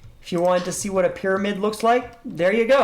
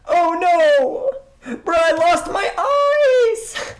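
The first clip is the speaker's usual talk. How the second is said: surprised; 11 semitones higher, 5 dB louder, much slower than usual. Real, not acted. Blindness effect hits him.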